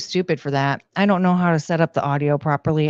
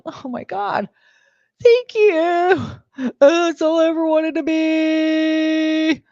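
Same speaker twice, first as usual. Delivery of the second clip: much higher, hammed-up delighted thanks; playful over-the-top gratitude, slow at the end; mock overjoyed gush; 11 semitones higher, slower than usual. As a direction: gush like it's the best compliment ever. Her gushing mock reply.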